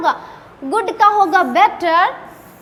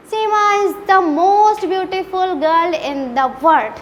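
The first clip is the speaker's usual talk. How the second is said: slow teaching example; much slower than usual. Shown as a demonstration. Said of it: "यहाँ पे क्या हो जाएगा?".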